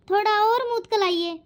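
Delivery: lisped word मुतकुलाइए, with the s of मुस्कुराइए turned to t; childlike lisp on मुतकुलाइए; lisping bride. Acted. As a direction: lisp मुतकुलाइए like a shy bride who can't say her s sounds. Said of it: "ये तो तोतली है".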